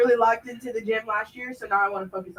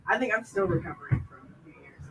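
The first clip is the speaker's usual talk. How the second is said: hoarse raspy voice after partying; rough, worn-out raspy throat; smoker's rasp; 5 dB quieter than usual. Real, not acted. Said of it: "That's why I sound like I smoked a six pack a day".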